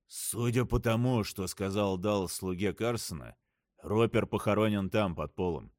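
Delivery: slurred mumble, slow; бормочет, язык заплетается; заплетающимся языком. Acted. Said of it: "Заплетающимся языком пробормотал капитан". (заплетающимся языком бормочет)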